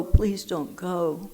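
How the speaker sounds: drawn-out slow "please don't go". Retold or imitated. Lonely caller begging the volunteer, slow pleading. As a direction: stretch the plea out slowly. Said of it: "And I would scream".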